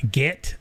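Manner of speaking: "get" rhyming with bit; Southern "git". Shown as a demonstration. Host confessing his old accent habit, Southern git. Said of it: "enough about how I say get".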